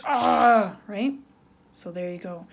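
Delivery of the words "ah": mock Hulk roar. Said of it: "like Hulk smash".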